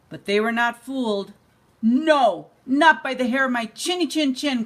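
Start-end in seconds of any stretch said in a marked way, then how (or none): 1.8-4.6 calling back defiantly. Acted. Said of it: "called back the third little javelina".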